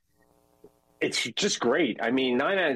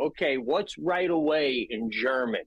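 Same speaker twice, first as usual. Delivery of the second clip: mock sweetly; slower than usual. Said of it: "really nicely".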